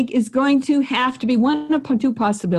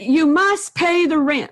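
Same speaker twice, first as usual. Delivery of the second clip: villain voice; 6 semitones higher, slower than usual. Retold or imitated. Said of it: "The villain says".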